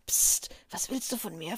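hushed frightened whisper; scared woman whispering at the well. A narrator's reading. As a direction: whisper it so no one hears. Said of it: "flüsterte sie".

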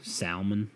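"Salmon" said sal-mon, L pronounced; "Salmon" with a clear L; sounded L in salmon. Shown as a demonstration. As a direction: spell out the L in "Salmon". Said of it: "What if I said it like that?".

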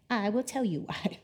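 a soft, wry aside as God; quiet imagined retort. Retold or imitated. Pastor imagining God answering the people, quiet and wry. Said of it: "imagine God being like".

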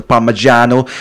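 drawn-out, hammed-up Italian accent on "Parmigiano"; exaggerated Italian accent. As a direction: play up the Italian accent, slowly. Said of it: "Why have you got to go super Italian?".

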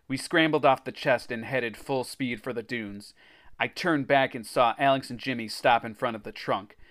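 animated adventure storytelling; story narration. A narrator's reading. Reader tells of racing to the beach, story narration. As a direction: read it like a kids' adventure book.

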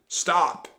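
loud, high yell; urgent pirate shout; shouted command. A narrator's reading. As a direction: holler it after runaway men. Captain yelling after fleeing men.

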